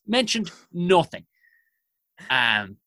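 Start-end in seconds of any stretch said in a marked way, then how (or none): 0.0-1.3 "nothing" set apart and slowed; higher, slower, weighty stress on "nothing"; slow emphatic repeat. Real, not acted.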